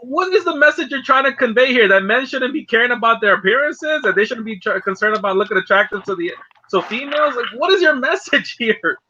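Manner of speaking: wait, what are you even saying; puzzled and mocking at a commercial; incredulous retort. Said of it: "I'm like".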